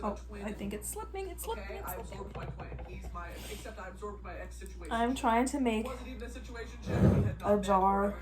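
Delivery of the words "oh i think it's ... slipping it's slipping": whispering. Real, not acted. Jar slipping while cooking.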